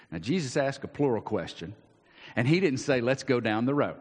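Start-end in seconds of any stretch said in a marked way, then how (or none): 3.0-4.0 teacher voice. Pretend. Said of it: "like a teacher would".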